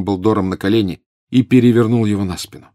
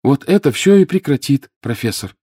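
strained, high and loud, then sinking; cracked voice; 6 semitones higher, 5 dB louder than usual. A narrator's reading. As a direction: promise it with a cracking voice. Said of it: "надтреснувшим голосом пообещал Гарри".

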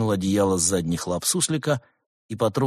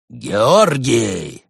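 louder, sharp shouted name; bark; 3 semitones higher, 8 dB louder than usual. A narrator's reading. Cat monk barking at the stalling gopher. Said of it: "рявкнул Барс".

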